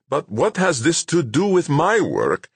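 high, indignant protest with "my" hit hard; exasperated question, "my" punched out; stress on MY. A narrator's reading. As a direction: lean hard on the word "my". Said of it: "putting a stress on the word my".

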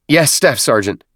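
mildly embarrassed recruit reply; a touch of sheepishness; halting, embarrassed. A narrator's reading. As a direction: answer the sergeant a little awkwardly. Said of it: "replies were halting, embarrassed".

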